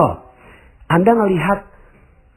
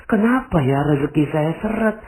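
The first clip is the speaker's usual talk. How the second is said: complaining prayer; 8 semitones higher than usual. Acted. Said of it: "seandainya Anda sekarang ini berintrospeksi".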